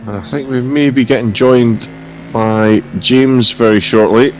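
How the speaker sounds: hoarse, croaky throat. Real, not acted. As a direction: speak through a croaky voice. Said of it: "my croaky voice can have a rest".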